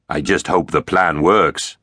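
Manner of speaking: slow, understated grimness; a touch of gloomy worry; grim. Acted. Arx doubts their plan as he checks his armour, mildly grim. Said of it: "said Arx grimly".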